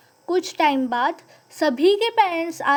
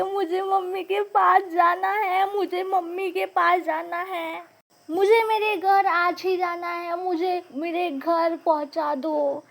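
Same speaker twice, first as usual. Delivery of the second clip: mock crying plea; 3 semitones higher than usual. Little girl on the bus wailing for her mother, a mild mock cry. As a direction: beg for mommy like a little kid, half-crying. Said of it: "ऐसे करके मैं ये सब ड्रामे कर रही थी".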